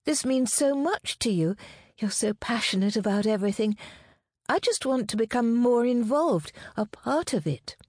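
adoring fiancée, high and earnest; earnest, devoted fiancée. Acted. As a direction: plead to be let in, voice lifted.

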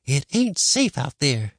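put-on slow warning old woman; worried grandma. A narrator's reading. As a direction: warn like an anxious granny.

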